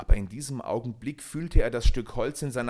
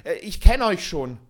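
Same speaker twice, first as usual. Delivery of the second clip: much higher and louder, panicked refusal; frightened cry; 9 semitones higher, 8 dB louder than usual. A narrator's reading. Peter refuses Michel, crying out in panic. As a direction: cry out and back away in fear. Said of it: "von unerklärlicher Angst ... gejagt, rief er".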